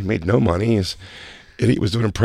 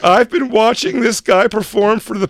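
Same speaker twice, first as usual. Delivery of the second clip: hammed-up higher-pitched woman marvelling; incredulous woman; 11 semitones higher, 4 dB louder than usual. Comic voicing the new girlfriend watching the act, incredulous. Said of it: "the new one can't believe it".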